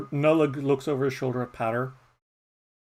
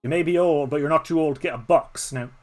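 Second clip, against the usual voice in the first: mild snarl. Acted. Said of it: "Z snarls and says".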